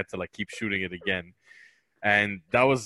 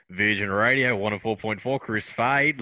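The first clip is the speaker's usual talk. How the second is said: Chris Fade. Retold or imitated. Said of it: "My, my trigger for that is Chris Fade".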